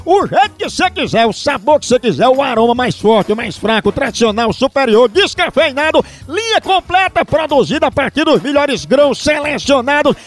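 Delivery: upbeat radio commercial voice; radio ad read. Acted. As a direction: sell the coffee like a radio spot. Reads a coffee ad.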